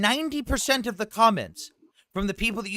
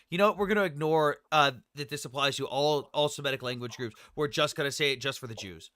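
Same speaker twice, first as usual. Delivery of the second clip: lower, mock-official voice; mocking pompous voice; 7 semitones lower than usual. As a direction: ham it up as a smug official. Mocking dictionary editors' imagined words.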